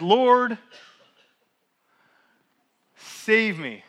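loud desperate plea to the Lord; loud cry for help. Retold or imitated. Peter sinking cries loudly to the Lord, desperate loud plea. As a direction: call out for rescue with full voice. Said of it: "That's what he says".

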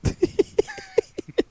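a very high burst of laughter. Real, not acted. Laughing at the quote.

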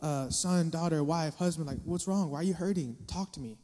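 a hint of soft, patient concern; gentle caring. Parent gently asking a hurting child, lightly soft and caring. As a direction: ask gently, like a parent who listens. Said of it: "You've gotta be understanding".

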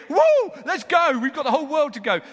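loud, very high cheer into eager rush; whooping, raring to go; jubilant whoop. Acted. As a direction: celebrate a jailbreak at full voice. Freed prisoner celebrates escape.

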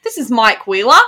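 demonstrated Aussie line, rising at the end; Australian accent. Shown as a demonstration. Podcaster coaching laughing co-host, Australian accent. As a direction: repeat it in Australian. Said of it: "you have a good Australian accent".

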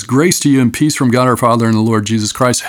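breezy, faintly goofy religious greeting, done fast; mock churchy greeting. Shown as a demonstration. Preacher mocking how churchy people talk, quick mock-pious greeting. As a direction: rattle it off fast like a pious stock phrase. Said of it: "sound fairly religious and a little goofy".

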